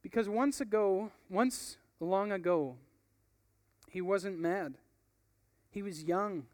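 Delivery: calm him down gently; gentle. Acted. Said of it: "with a gentleness".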